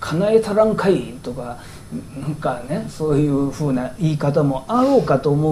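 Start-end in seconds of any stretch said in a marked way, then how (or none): 0.0-1.1 mildly gruff fisherman's demand; rough fisherman. Shown as a demonstration. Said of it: "漁師らしく乱暴に".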